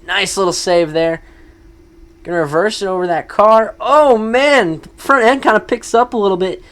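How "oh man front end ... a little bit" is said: excited. Real, not acted. Truck lifts front end.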